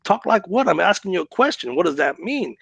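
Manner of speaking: high, puzzled comeback that settles down; firing back a confused question, high at first; retold indignant retort. Man retelling his retort to a prank caller, indignant.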